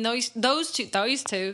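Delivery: slipping briefly into Australian; a stray hint of Australian; accidental Australian accent. Real, not acted. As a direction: let an Australian vowel sneak in by accident. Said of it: "Was I just Australian for a second?".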